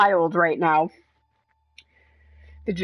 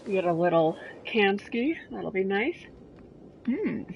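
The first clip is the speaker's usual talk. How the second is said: talking while crunching chips; words round a crunchy mouthful; 6 dB quieter than usual. Real, not acted. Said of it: "sorry about my crunching".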